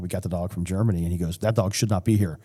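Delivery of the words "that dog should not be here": mild imitation of a German accent; firm quote, lightly German-accented. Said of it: "he had that German accent".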